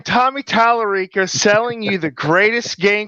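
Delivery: a hint of a carnival huckster selling hard; snake oil seller. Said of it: "let me try to do my impression of a snake oil salesman".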